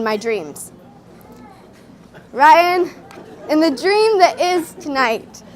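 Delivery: measured spoken-word delivery with deliberate pauses; slam poem recital. Acted. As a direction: perform a wedding poem to the room. Performs own wedding slam poem.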